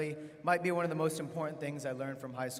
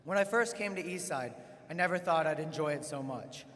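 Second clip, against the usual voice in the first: podium speech; 3 dB louder than usual. Real, not acted. Opens a graduation address.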